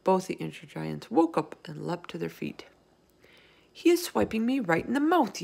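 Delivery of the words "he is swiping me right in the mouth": high-pitched complaint; mildly yelled accusation. Acted. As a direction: yell it in outrage at being hit. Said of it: "yelled the meat dripper".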